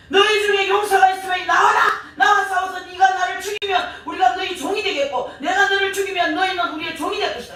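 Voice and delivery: high, loud battle challenge; loud taunting challenge. Retold or imitated. Goliath challenging Israel's army to single combat, loud taunting shout. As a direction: call out a mocking dare to the enemy ranks. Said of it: "이렇게 큰 소리로 조롱했지만".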